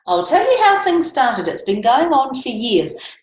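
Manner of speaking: ranting koala. Acted. Teacher reading the picture book to the class, as an indignant koala. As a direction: rattle off the koala's grievance, exasperated. Reads the koala's rhyming complaint.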